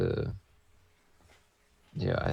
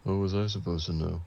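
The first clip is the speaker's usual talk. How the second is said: lightly put-on impression of a friend; a hint of someone else's accent; Tom. Shown as a demonstration. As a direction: imitate your friend's stock complaint. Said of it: "Give me the accent of Tom".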